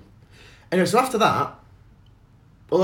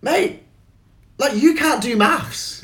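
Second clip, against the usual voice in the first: mocking retort; 11 semitones higher, much slower than usual. Retorting to the heckler.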